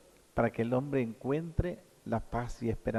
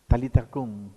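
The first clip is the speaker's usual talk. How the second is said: commanding call; 8 dB louder than usual. Retold or imitated. Jesus commands the dead girl.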